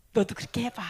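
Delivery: hushed, breathy aside; whisper. Real, not acted. Preacher whispering to the congregation about following Jesus. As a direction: lean in and whisper it.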